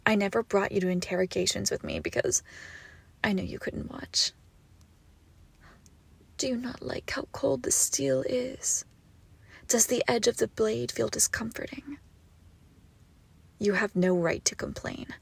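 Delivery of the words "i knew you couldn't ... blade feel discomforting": cold whisper. Acted. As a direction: whisper close to the ear with the blade. Knife at captive's neck.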